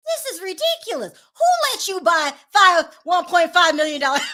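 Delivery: disbelief, half laughing at him; incredulous. Real, not acted. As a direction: ask it like you can't believe it, laughing. Incredulous mocking question.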